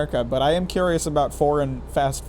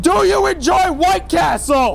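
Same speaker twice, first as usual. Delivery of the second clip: very loud shouting, getting higher and louder; 7 dB louder than usual. Repeating a question over loud background noise: yelling at the top of lungs. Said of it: "Let me yell at the top of my lungs".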